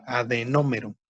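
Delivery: "Adenómero" stressed on NÓ, falling after it. Shown as a demonstration. Teacher models a new term, stress on the O. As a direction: lean on the first O of "Adenómero". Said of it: "con acento en la O".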